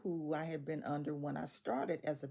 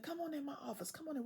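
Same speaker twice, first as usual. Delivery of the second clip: hushed invitation; 9 semitones higher, 6 dB quieter, much faster than usual. Retold or imitated. Coworker invites her to talk privately.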